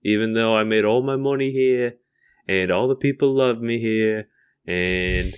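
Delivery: put-on lightly done British accent; a hint of British accent on a measured quote; Daniel Radcliffe. Radcliffe talking about his success here, light British accent. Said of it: "still have his British accent".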